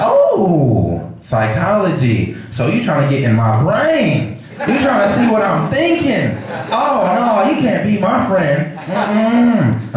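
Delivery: high, suspicious mock sassy voice; sassy bus lady. Crazy lady rejecting the student beside her, high and sassy. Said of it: "there was a lot of neck movement when she was talking to me".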